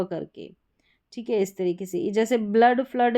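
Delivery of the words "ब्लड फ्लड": ब्लड, फ्लड with double o as "uh"; short "uh" sound. Shown as a demonstration. Teacher shows an exception to students, "uh" sound. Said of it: "में अ उच्चारण है double ओ का".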